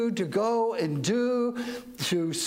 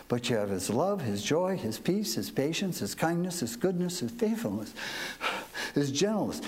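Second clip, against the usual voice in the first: muffled behind a face mask; words dulled by a mask; through a face mask; 4 semitones lower, faster than usual. Real, not acted. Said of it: "It's hard to talk through this mask".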